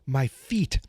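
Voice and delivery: slow solemn kung fu voice; martial arts master. Retold or imitated. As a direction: intone it like a sensei. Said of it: "He's like".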